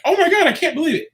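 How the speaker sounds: high-pitched, quick imitation of an astonished crowd; mock amazement. Mimics people's astonished reaction.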